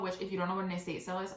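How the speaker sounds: quick, rushed explanation; talking really fast. Real, not acted. Vlogger explaining an estate sale to viewers, talking fast. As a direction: race through the aside. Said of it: "wow, I'm talking really fast".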